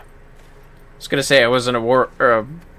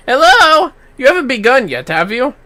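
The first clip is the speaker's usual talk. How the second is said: bright, questioning; lightly voiced eager kid; checking whether the fight has started; impatient child; 13 semitones higher, 6 dB louder than usual. Child interrupts.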